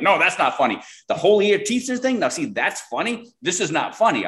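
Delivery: high, emphatic imitation of the offended client; mock indignant client. Client insisting it's not funny.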